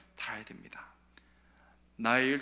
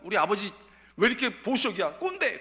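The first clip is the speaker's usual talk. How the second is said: loud, higher mock rant at dad; whining yell of a rebellious kid; bratty teen yelling; 5 semitones higher, 6 dB louder than usual. Teen yelling back at a conservative father, loud and bratty.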